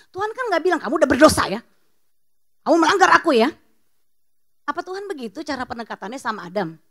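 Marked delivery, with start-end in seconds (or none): 0.8-3.5 mild mock scolding. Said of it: "nggak bentak-bentak Adam".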